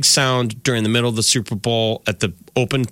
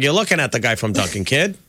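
Casey Affleck Boston voice. Retold or imitated. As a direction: imitate the Boston Dunkin' guy, lightly. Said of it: "the voice?".

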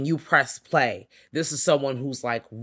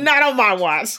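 higher, louder playful refusal; hammed-up, higher and louder; mock stand; 8 semitones higher, 7 dB louder than usual. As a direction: block them like a bouncer.

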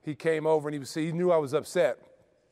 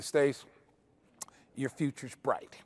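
sarcastic; 3 semitones lower, 4 dB quieter, much slower than usual. Retold or imitated. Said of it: "the way he said it was kinda sarcastically".

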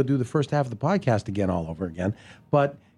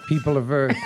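booming arrogant alien overlord. Retold or imitated. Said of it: "And then you said".

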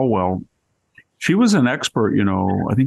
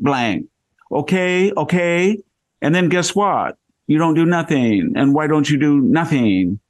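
Valley Girl impression; 6 semitones higher than usual. Imitating the Chinese consul for the host, high hammed-up Valley Girl voice. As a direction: pitch way up and stretch out the okay like a Valley Girl. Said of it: "broke out in a Valley Girl accent".

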